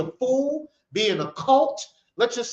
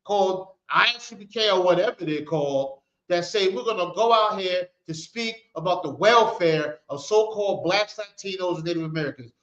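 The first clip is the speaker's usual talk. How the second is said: mock outraged heathens; 2 semitones higher than usual. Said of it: "They said".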